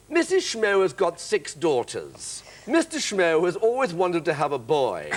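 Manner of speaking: slow, grand, enchanting delivery; magical line reading. Retold or imitated. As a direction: make dull lines sound wondrous. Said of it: "he'd go".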